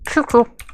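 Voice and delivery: high squeaky chirp chirp; squeaky chirp sounds. Shown as a demonstration. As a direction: chirp it like a little bird toy. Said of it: "little squeaky sound effect".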